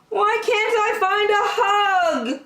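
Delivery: sad Douglas. Acted.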